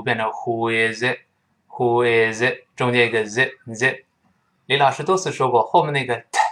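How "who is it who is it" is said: WHO IS IT run together slowly; slow linked "who is it", words joined; linked reading. Shown as a demonstration. Teacher showing learners the liaison, slow linked reading. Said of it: "放在一块儿连读".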